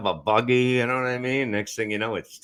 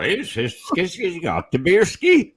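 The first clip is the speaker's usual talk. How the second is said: slow, higher, louder put-on Asian accent; mock Asian accent; 8 semitones higher, 5 dB louder than usual. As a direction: ham up a crude Asian accent. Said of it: "Nobody's ever done an Asian accent".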